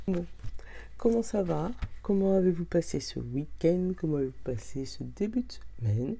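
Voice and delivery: rough morning voice with vocal fry. Real, not acted. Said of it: "vous allez me retrouver avec ma voix du matin".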